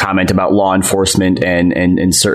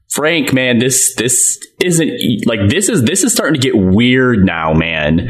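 mildly uneasy, halting mock plea; acted-out uneasiness; 3 semitones higher, slower than usual. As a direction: act out growing discomfort, stumbling at first. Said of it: "pretty uncomfortable with it".

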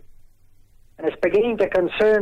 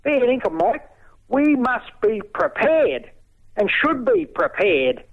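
raised, impassioned pitch; indignant rant; 3 semitones higher than usual. Real, not acted.

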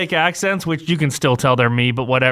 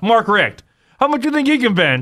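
higher, fast Sal voice; prank caller voice; 5 semitones higher than usual. Retold or imitated. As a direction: rattle it off as Sal. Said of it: "you try to act like".

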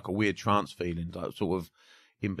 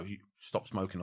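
soft embedded command; 9 dB quieter than usual. Shown as a demonstration. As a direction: slip the command in under your breath. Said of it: "on the whisper".

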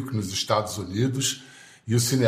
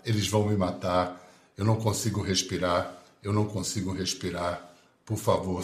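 collapsed on floor. Acted. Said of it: "As palavras de Floyd".

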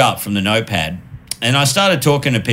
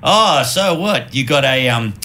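slow, mildly raised mock flirting guy; lightly voiced awkward bar guy; a hint of a clumsy flirt; mock pickup line; 3 semitones higher than usual. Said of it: "It was like".

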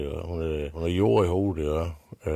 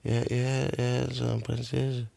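lille pige; 7 semitones higher than usual. Acted. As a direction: answer shyly as the little girl. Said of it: "siger hende, en lille pige". (lille pige svarer højt og sagte)

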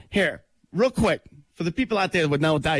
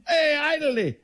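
much higher mocking "Hey, Italy"; mock dumb guy; 10 semitones higher than usual. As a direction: echo the clueless voice. Mocking back.

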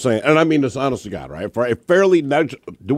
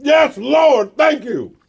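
preacher praise; 11 semitones higher, much slower than usual. Pretend. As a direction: shout thanks to the Lord like a revival. Mock praise continues.

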